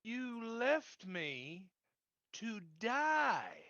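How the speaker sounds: slow, soft hurt accusation; wounded. Acted. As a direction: say it slowly, quietly hurt.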